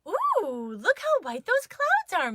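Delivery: a high, lilting mom voice, a little hammed up; Mama's voice. A narrator's reading. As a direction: sing it up high like Mama admiring the dog. Mama voiced in story.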